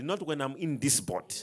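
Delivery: low, soft, unhurried declaration; quiet assurance. Retold or imitated. Paul stands up to answer the sinking ship's crew, quiet assurance. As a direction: say it low and softly, with certainty.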